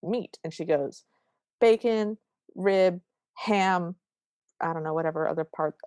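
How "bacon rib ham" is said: mock-angry, each word separate; angry listing. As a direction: list them as if slamming each one down. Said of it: "she's angrily slamming down".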